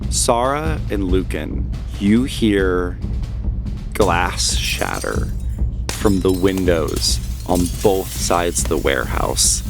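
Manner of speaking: slow, suspenseful narration with long pauses; game master's scene setting. Acted. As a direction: unfold the danger piece by piece. GM narrates the attack.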